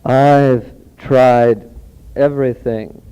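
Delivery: lightly voiced sultry commercial woman, long pauses; hint at a seductive ad pitch, pausing between phrases; a sultry singer type. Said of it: "a Julie London kind of figure".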